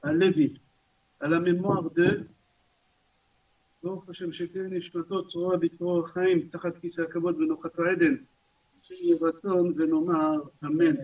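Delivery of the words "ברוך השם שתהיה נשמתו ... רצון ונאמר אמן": rapid, low recited prayer; memorial blessing. Real, not acted. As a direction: run through the blessing briskly in a low monotone. Recites memorial blessing over names. (bénédiction récitée vite, d'une voix basse)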